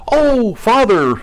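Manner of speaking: high, slow cry of joyful greeting. Retold or imitated. Believer greeting his father at the pearly gates, slow high joyful cry. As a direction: call out as if seeing him at the gates. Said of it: "and you go".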